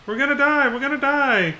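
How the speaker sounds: high, loud whiny wail, mocking a big baby; mock whining. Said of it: "whining like a big baby".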